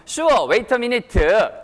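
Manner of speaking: very slow Korean-style English, vowel added at the end; Korean-accented English. Shown as a demonstration. Teacher modelling a Korean reply, drawn-out Korean accent. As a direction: draw out the ending like a Korean learner. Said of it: "뒤에 좀 약간 이렇게 끌어주시고요".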